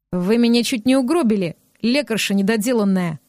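mildly voiced angry snap; he tries to work himself into anger at the healer; snapped. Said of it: "рявкнул я". (сдержанно рявкнул)

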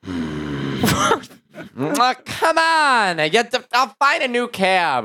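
hammed-up pleading cab driver, groan rising high; imitated desperate driver. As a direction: mimic a cabbie in agony, groan then high plea. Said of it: "he's just going".

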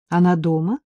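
impatient. A narrator's reading. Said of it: "спросил Саша нетерпеливо".

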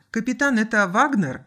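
loudspeaker report. A narrator's reading. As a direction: report in over the intercom. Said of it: "доложил по громкой связи кадет".

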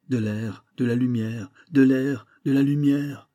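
building to a desperate shout; desperate cry. Acted. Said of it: "un cri rauque, aussi désespéré que révolté".

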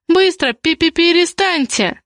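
high, stammered demand to stop. A narrator's reading. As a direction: order them urgently, tripping on the first syllable. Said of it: "потребовала Зоя".

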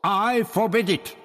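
high, loud, sharp refusal; snapped. A narrator's reading. Barbara forbids the priest's punishment, snapping. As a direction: snap it out to shut him down. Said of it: "Barbara snapped".

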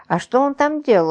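high, curious question; pry with lively feminine interest; womanly curiosity. A narrator's reading. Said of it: "Очень по-женски заинтересовался Загогулина".

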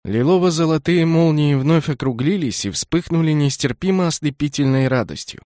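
ordinary delivery, nothing marked

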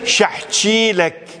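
شحشيلك with an Iraqi "ch" sound; southern Iraqi pronunciation. Shown as a demonstration. Lecturer citing a word in southern Iraqi dialect, Iraqi pronunciation. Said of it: "لهجة جنوبية عراقية".

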